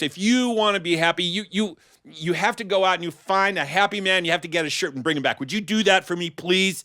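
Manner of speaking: high, pleading queen voice; a wife fretting over her husband; worried queen. Acted. Queen begs king to search.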